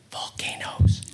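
breathy whispered "Volcanoes."; just breathe the word Volcanoes. Retold or imitated. God whispering to stop the worried speaker, a breathy whisper. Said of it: "he just whispers".

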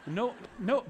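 normal talking voice

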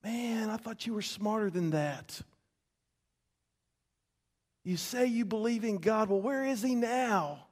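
mocking ridicule. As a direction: sneer like a mocking crowd. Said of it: "They're saying".

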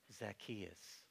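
soft, tender call of a name. Retold or imitated. Jesus tenderly calling Zacchaeus by name. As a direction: call his name with deep compassion. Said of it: "in a way that was so powerfully moving, so caring".

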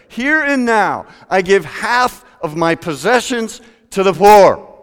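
loud, high bold pledge; Zacchaeus declaring. Acted. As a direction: stand and announce it boldly. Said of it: "he stands up".

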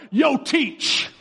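mock-casual, cocky high voice; patronizing. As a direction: talk down to the teacher with a smirk. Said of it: "it's kinda disrespectful. It's kinda patronizing".

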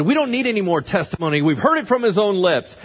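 acted outrage. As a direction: declare it loudly, case closed. Council's outraged verdict, acted out.

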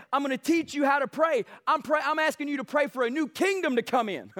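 rally the crowd; rallying shout. Retold or imitated. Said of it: "he says".

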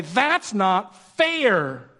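put-on slow, drawn-out childish whine; a touch of the sulking kid; whiny complaint. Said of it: "And we say".

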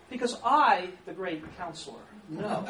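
mock pompous, the great counselor; mock self-important. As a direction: puff yourself up, half joking. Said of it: "they proceed from arrogance".

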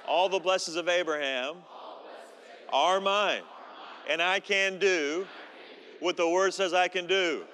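measured, declaiming creed read; preacher reciting a creed aloud; recited confession. Acted. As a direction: lead the room in a solemn spoken creed. Leads congregation in Bible confession.

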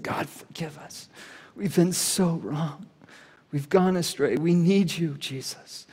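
soft, slow, broken prayer of repentance; hushed cry to God. Retold or imitated. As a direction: whisper a desperate plea for forgiveness. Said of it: "they cried out to God".

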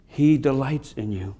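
hushed, tender echo of the line before; tender, soft repeat. Shown as a demonstration. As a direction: let "He" land gently and slow the whole line right down.

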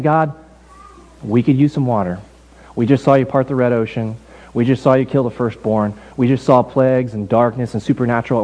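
low, even, humble plea; humble prayer. Acted. Thirsty Israelites asking God for water, humble prayer. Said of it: "humbly praying and saying".

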